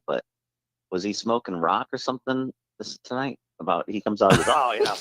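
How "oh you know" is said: lightly voiced Leo, a touch higher; a hint of Leo bragging; mild take-off of a boastful player; Leo impression. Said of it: "That is a great impression of Leo".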